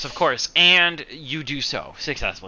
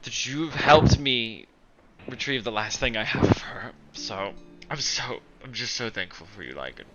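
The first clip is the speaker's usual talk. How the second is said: tender grief. Acted. Anders mourning mother, grateful.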